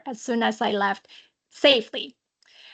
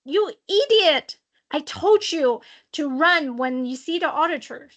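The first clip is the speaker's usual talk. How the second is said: retold angry scream; 3 semitones higher than usual. Woman at the entrance screams at the auditor, mock angry scolding. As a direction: scold like a furious manager, without really screaming. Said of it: "and she screamed at me".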